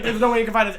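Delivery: amped-up acted confidence; hyped driver quote. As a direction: imitate a driver bragging mid-chase. Quotes driver during the chase.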